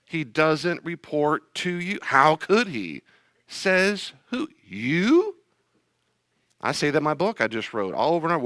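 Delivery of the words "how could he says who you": scornful retort. Acted. Mocking skeptic then retort.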